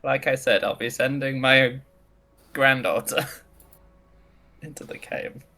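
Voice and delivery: lightly voiced old woman; a hint of a creaky grandma; old lady voice. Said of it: "still doing the old lady voice".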